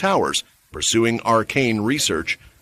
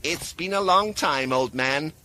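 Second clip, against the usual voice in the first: warm greeting; 5 semitones higher, 4 dB quieter than usual. A narrator's reading. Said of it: "a genuine smile on her face".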